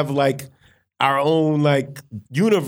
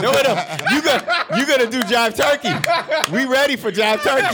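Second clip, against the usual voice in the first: excited; 10 semitones higher than usual. Real, not acted. Hyping up the next poem.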